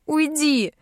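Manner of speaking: high sobbing shout of go away; sobbing cry. A narrator's reading. Heroine sobbing at Dar to leave, high and tearful. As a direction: push him off while sobbing. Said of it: "Рыдаю я".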